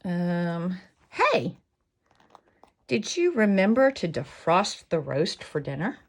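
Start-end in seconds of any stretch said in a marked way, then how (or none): 1.1-6.0 helpful inner voice. Acted. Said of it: "That's a voice you can answer".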